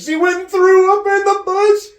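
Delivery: laughing hard. Real, not acted. Storyteller cracking up at his own punchline. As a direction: gasp it out between laughs.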